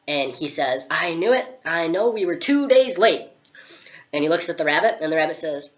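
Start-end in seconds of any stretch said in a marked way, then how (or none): 0.9-3.3 exclaiming. Acted. Hat man reacts to the date.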